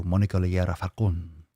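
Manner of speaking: put-on playful Spanish-accented name. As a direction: say the name with Spanish vowels and tapped r. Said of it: "saying it like this, but I want to".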